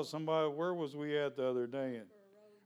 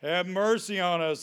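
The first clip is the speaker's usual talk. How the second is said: loud, desperate plea; crying out; 4 semitones higher, 6 dB louder than usual. A narrator's reading. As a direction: shout it over the crowd. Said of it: "they cried out again".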